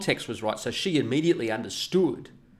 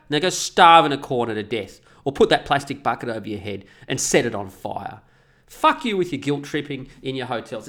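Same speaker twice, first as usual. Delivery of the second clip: loud furious tirade; angry rant; 2 semitones higher, 4 dB louder than usual. Real, not acted. Ranting at hotel chains, loud and angry. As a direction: tear into them.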